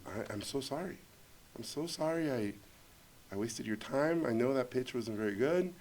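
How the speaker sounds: soft, subdued apology; contrite apology. Retold or imitated. Director alone with producer after failed pitch, softly contrite. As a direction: apologize quietly, sheepish and defeated.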